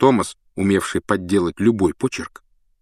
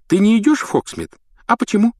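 eager fan voice; 14 semitones higher, 4 dB louder than usual. Acted. Adoring Colin asks Harry.

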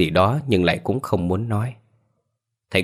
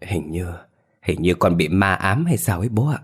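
slightly scared. Acted. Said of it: "giọng vẫn run sợ đôi chút".

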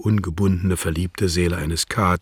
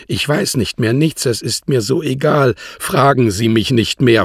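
exhausted pleading; 7 semitones higher, 7 dB louder than usual. A narrator's reading. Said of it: "flehte sie erschöpft".

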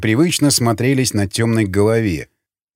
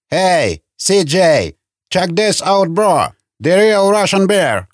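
mildly raised, higher-pitched call; called-out shout; 5 semitones higher, slower than usual. A narrator's reading. Guard calling his mate to see the captives, called-out shout. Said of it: "и крикнул".

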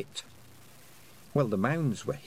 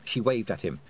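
ordinary delivery

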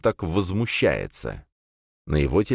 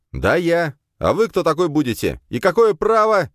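loud, high indignant yelling; indignant shout; 12 semitones higher, 5 dB louder than usual. A narrator's reading. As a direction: push back hard. Hero answers angrily. (возмущённый крик)

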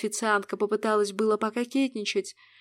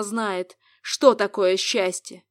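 slow sarcastic jab, stress on что; 5 dB louder, slower than usual. Acted. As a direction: drag out "что такое счастье" with scorn. Mocking the rival demon.

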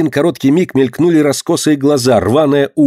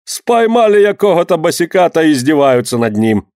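Ukrainian-tinged grumble; 5 semitones higher than usual. A narrator's reading. Crowd grumbles at the trader, Ukrainian-tinged.

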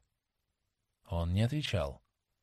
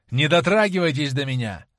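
louder, sharp recoil; exclaimed; 7 dB louder than usual. Acted. Dorian shoves Sibyl away, exclaiming. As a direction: push her away with the words. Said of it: "воскликнул он".

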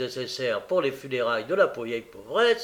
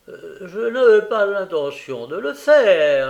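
tearful; 6 semitones higher, 10 dB louder than usual. Acted. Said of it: "les armes aux yeux".

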